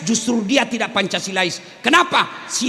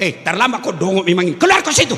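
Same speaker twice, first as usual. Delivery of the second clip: angry scolding; 3 semitones lower, faster than usual. Retold or imitated. Lecturer yells at late student.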